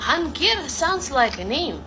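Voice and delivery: slow musing. Real, not acted. Foreigner musing slowly on a word.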